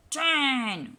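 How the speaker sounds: loud roaring count; lion cub roar. A narrator's reading. Mother reading to child, roaring as lion cub. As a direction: roar the number like a little lion. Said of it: "roars little lion cub".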